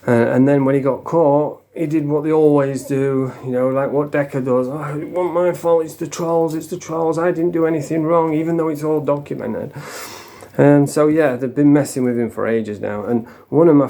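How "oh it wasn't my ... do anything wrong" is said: higher, mock-defensive whine; protesting excuses. Caught man blaming the trolls, mock-protesting. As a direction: imitate someone denying all blame.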